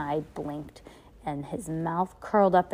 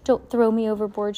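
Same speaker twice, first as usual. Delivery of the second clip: higher, louder frightened plea; pleading; 4 semitones higher, 7 dB louder than usual. A narrator's reading. Aunt Josephine begs not to be thrown overboard, pleading. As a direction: beg for your life in a raised voice. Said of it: "she pleaded".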